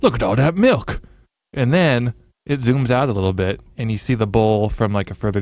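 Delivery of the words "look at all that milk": punchy, slightly raised milk voice; announcing voice. Acted. Voice in a cereal video idea, punchy exclamation. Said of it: "and a voice goes".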